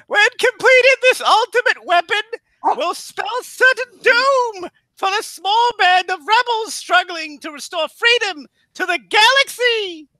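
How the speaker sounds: movie trailer voice. Acted. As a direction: boom it out like a Star Wars crawl. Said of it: "that's me doing voices".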